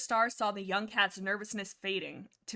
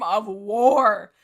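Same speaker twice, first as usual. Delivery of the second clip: dramatic finish; 13 dB louder than usual. Acted. Dramatic close of read passage.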